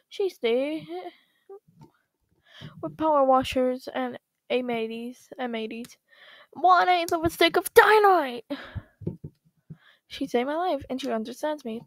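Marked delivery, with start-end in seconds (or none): 2.8-8.4 building up to a loud dynamite; louder retake. Acted. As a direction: punch the last words hard. Repeated line, second take.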